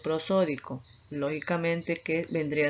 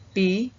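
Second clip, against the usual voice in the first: pi said louder as the stressed syllable; 3 semitones higher, 6 dB louder than usual. Shown as a demonstration. Teacher showing the students the tonic syllable, loud pi. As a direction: punch the syllable pi. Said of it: "que vendría a ser sílaba tónica".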